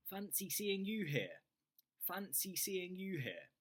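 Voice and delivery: delighted to bump into a friend; friendly surprise at seeing you here; pleasantly surprised. Shown as a demonstration. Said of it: "this is a nice way to say that you're surprised".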